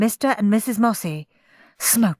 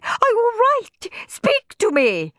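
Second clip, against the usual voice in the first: high-pitched, frantic wife; alarmed high voice, slowing on the plea; gasping alarm. A narrator's reading. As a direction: plead with the fallen husband in panic. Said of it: "gasped Missus Mossy".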